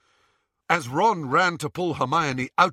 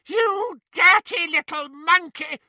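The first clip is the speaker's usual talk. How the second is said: higher, louder furious bawl; 14 semitones higher, 6 dB louder than usual. A narrator's reading. Bellatrix at Dobby, furious bawl. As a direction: bawl the insult. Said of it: "bawled Bellatrix".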